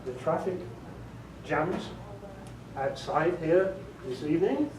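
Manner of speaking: measured British English with pauses before key words; British accent. Shown as a demonstration. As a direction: show off British English, leading up to "schedule" said with a "sh". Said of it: "like a British would say it".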